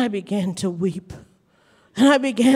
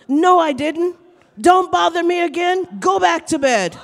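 mildly cross, higher-pitched retelling; mock-irritated dismissal; annoyed uncle; 7 semitones higher, 6 dB louder than usual. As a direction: lightly act an uncle fed up with being woken. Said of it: "you were mad at me".

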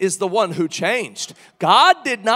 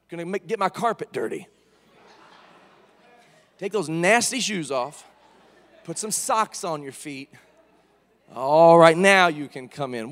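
lower, mock house-proud scolding; nagging fussy God; 5 semitones lower than usual. God scolding Moses over dirty shoes, mock nagging. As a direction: scold like a fussy host about the carpet. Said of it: "and the Lord said".

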